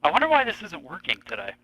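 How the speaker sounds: distorted robot-like phone voice. Real, not acted. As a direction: sound like a robot over a bad line. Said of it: "you sound like a cool robot on this end".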